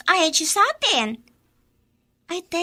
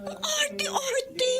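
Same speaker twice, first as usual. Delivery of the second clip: mocking sneer; 10 semitones higher, 6 dB quieter, much slower than usual. Mocking rival's fake concern.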